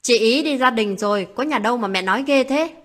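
a touch of irritated retort to mother; annoyed. Acted. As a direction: snap back, mildly annoyed. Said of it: "bằng giọng khó chịu".

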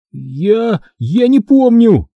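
halting start, then a high drawn-out cry; strained, forced out. A narrator's reading. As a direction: squeeze the words out in distress. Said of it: "выдавил я". (с трудом выдавливая слова)

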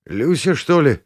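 surprised, rising on the name; startled patient exclaiming a name. A narrator's reading. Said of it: "воскликнул я".

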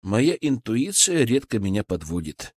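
calm, understated assurance. Acted. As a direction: answer evenly and unruffled. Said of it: "спокойно ответил я".

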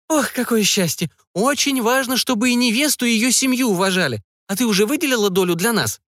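mother gushing, pitched high; eager mother overjoyed at the bride gifts; high-pitched delighted mother. A narrator's reading. Mother gushing to her daughter about the gifts, high delighted voice.

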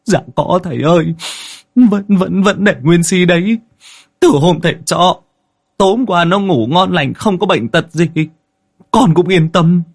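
high, stammering frightened account; scared man pleading with the master; terrified villager. A narrator's reading. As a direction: pour it out in a panicky high wail. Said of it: "Anh Tín đã hại lắm".

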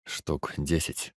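slow, low and distant; slow low report. Acted. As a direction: say it slowly from far away. Man reports after scanning.

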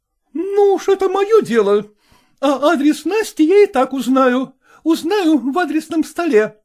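high, loud, scolding woman's voice; indignant madam. A narrator's reading. Zoya challenging Selezenkin, high and indignant. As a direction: demand it like an outraged choir mistress.

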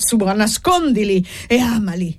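mock the miser's creed; lightly sarcastic priest; sarcastic rebuke.

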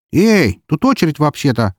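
high-pitched indignant objection. A narrator's reading. Girl cut off in the queue protesting, indignant. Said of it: "возмущённо сказала она".

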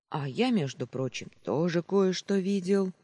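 put-on boy defiantly boasting to the sentry; heated shout. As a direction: blurt it out hotly. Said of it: "запальчиво крикнул Пиропа".

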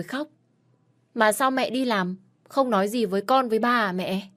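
a child's chatter, lightly voiced; small boy voice. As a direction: son innocently reporting father's tears.

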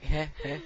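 soft, forced "heh, heh"; small mock laugh; mimicked teacher laugh. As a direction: imitate a clueless little chuckle. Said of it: "then she laughs at it".

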